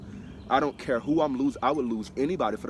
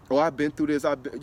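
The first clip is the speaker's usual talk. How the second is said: louder mock of someone bragging about hardship; mocking whiny claim; 3 semitones higher, 6 dB louder than usual. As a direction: parody a complainer, louder. Mocking people who claim hardship.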